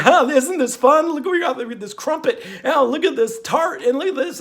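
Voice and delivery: high, chirpy mock cooking host; overexcited infomercial cook, high pitched; mocking TV chef. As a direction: ham up a gushing TV chef. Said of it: "he's going".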